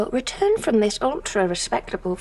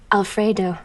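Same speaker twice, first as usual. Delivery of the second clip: a laugh rolled into the name; amused delivery of the name; 3 dB louder than usual. Shown as a demonstration. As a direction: laugh it out, savouring the big line. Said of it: "That was my big line".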